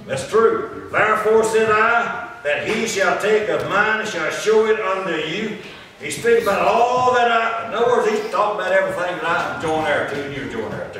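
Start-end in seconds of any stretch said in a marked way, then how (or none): 0.9-5.6 slow, measured declamation from the pulpit; scripture read aloud. Real, not acted. Preacher reading Saint John to the congregation, slow declamation. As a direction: sustain each phrase as solemn Bible reading.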